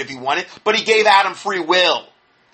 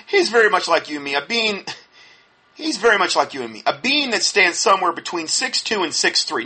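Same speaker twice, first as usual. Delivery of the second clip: lightly mimicked Texas accent; Kenneth Copeland; 2 semitones higher than usual. Critic mocking a preacher's claim about God, light Texas accent. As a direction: quote him with a hint of country twang. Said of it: "that's kinda how he talks".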